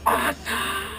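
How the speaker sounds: acted exhilaration; thrilled cheer. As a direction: cry it out as you take flight. Thrilled as griffin takes off.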